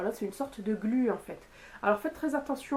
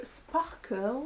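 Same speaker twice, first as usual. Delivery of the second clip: Sparkle dit lentement avec l'accent anglais; accent anglais. Shown as a demonstration. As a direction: prononcer Sparkle à l'anglaise, en appuyant. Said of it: "avec l'accent, s'il vous plaît". (Sparkle avec un accent anglais appuyé)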